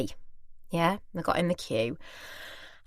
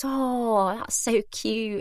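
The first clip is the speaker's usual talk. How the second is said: slow, higher retold coo; 4 semitones higher, much slower than usual. Lady admiring the toy Hoover, cooing. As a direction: coo over it, drawing it out.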